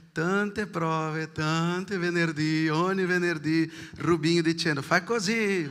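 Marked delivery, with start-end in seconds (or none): 4.8-5.7 raised pitch, imitated rehearsal instruction; mild mock shout. Choir leader Rubinho instructing at rehearsals, mock shouting. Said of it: "urlando a volte".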